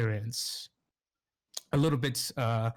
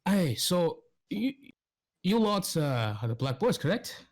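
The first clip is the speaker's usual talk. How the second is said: Roland's voice; 6 semitones higher than usual. Acted. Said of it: "Roland goes".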